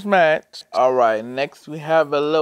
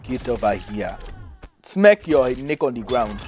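African Terminator voice; 2 semitones lower than usual. Pretend. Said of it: "The African Terminator".

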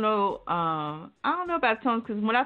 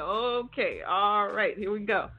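"Okay, all right" stretched in a little rhythm; easy rolling beat through "here we go"; rhythmic cadence; slower than usual. Retold or imitated. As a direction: imitate a storyteller's lilt on "Okay, all right". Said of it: "a little rhythm going".

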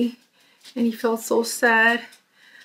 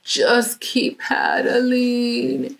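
desperate cry; 4 semitones higher, much slower than usual. Acted. Freddie in the front was like.

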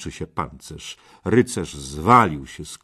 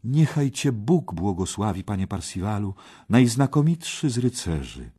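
lightly raised maiden's call; mild loud proclamation; 4 semitones higher, 3 dB louder than usual. Acted. Young maiden hails Parsival in the hall, gently calling out. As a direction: proclaim the blessing a little higher. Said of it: "zawołała głośno".

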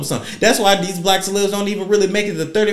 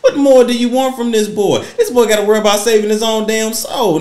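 higher, laughing hammed-up plea; imitation of a singer's voice; 5 semitones higher, 4 dB louder than usual. Vlogger defending a rapper, laughing mock plea in a singer's voice. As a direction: plead dramatically while laughing. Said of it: "Tyrese voice".

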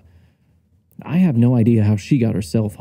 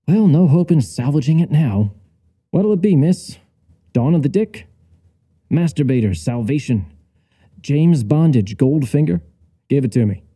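brash salesman; 4 semitones higher than usual. Acted. Brash pitch to customer.

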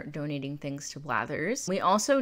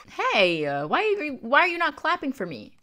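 higher, louder playful outrage; mock indignant; 10 semitones higher, 6 dB louder than usual. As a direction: pretend offense at no applause. Mock outrage at game villagers.

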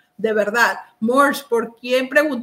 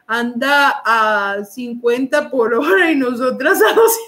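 laughing. Real, not acted. Reads chat while laughing.

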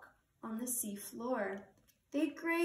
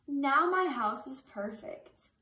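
louder, delighted cheer; proud little cheer; 6 dB louder than usual. Acted. Hermit Crab cheers over his finished house, happy. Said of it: "cheered Hermit Crab".

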